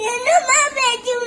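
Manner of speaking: crying. Real, not acted. Crying child protests mother.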